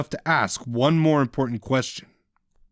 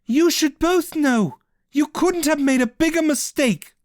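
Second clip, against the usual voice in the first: ominous warning. Acted. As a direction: warn them darkly. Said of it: "warned with as much ominous gravity".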